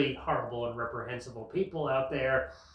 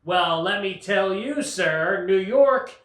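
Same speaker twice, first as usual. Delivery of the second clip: mock mayor; 2 semitones higher, 5 dB louder than usual. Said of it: "Eric Adams is on the other line going".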